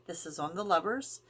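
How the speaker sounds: ordinary delivery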